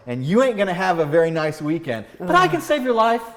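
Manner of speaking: loud, commanding doctor calling for the stretcher; hammed-up emergency doctor, pushing hard; urgent doctor. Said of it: "And the doc goes".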